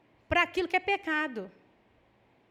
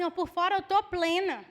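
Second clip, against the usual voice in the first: mock calm. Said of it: "Porque eu falo assim".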